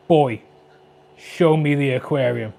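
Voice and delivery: mock God of War command. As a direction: read it like a gruff war god commanding his son. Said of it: "Why did I read that like, um, God of War?".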